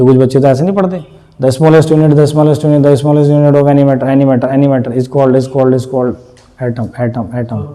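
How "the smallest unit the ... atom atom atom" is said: rote cramming. Retold or imitated. A student cramming a definition by rote, droning and fading. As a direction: parrot the phrase over and over like a kid mugging up. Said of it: "notes पर हाथ रख के ऐसे बोल के".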